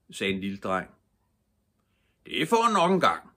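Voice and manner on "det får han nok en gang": high, loud playful father; jolly father. A narrator's reading. Topper's father teasing the little boy, high and loud. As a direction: tease the boy cheerfully. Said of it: "sagde Toppers far".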